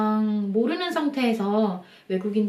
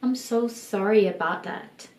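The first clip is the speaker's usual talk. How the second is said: sincere apology; 3 dB quieter, much slower than usual. Shown as a demonstration. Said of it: "내가 그 사람에게 미안하다면".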